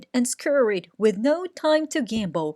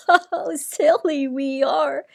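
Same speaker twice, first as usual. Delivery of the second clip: proclaiming; 5 semitones higher, 5 dB louder than usual. A narrator's reading. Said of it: "he proclaimed".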